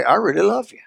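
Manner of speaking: easy, sincere "I really love you" with a slight lift; husband finally meaning "I really love you"; straight-faced sincere. Retold or imitated. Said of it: "look at him straight face and say".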